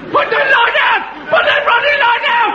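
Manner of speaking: furious bellow at someone far away; shouting. Acted. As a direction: yell it out across the harbour at full voice. Warden yelling at distant lighthouse.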